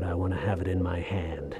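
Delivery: hushed, breathy last wish; whisper. Acted. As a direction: whisper it as if fading. Dying man's last wish.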